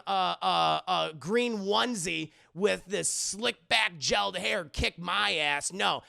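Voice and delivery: mildly hammed-up villain tirade; acted indignant outburst, loud in bursts; pissed-off rant. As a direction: rant in offended pride, punching key words. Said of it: "He's really pissed at this point".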